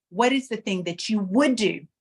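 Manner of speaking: "would" lifted and leaned on; emphatic WOULD, falling after it; stress on WOULD. Shown as a demonstration. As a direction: punch the word "would". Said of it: "emphasis on a different word".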